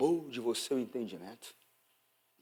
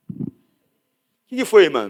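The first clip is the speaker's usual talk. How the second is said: slow, drawn-out asking pastor; lightly voiced pastor to a sister; retold pastor; 3 semitones higher, 9 dB louder, much slower than usual. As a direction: draw the question out gently.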